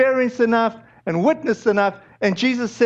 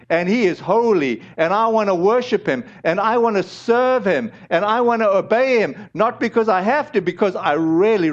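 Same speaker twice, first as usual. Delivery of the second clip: measured, deliberate declaration of faith; mean every phrase, building through the list; heartfelt conviction; 2 semitones lower than usual. Acted. Preacher showing real belief against casual belief, heartfelt. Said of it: "that's a vast difference to saying".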